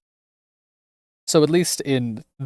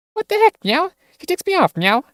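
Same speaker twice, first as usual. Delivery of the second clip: much higher, louder outraged squeak; indignant cat girl; 4 dB louder than usual. Acted. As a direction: sputter in shocked protest. Cat girl indignant at being removed.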